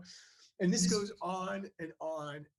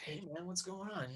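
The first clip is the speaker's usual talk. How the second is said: whisper; 3 semitones higher, 6 dB quieter than usual. Retold or imitated. Quiet answer on the phone.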